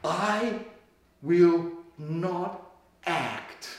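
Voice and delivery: God's words, hushed and slow with long pauses; soft and slow. Acted. Preacher voicing God's promise to the church, hushed and slow. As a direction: let each word fall softly apart. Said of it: "what God says".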